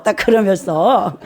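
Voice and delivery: ordinary delivery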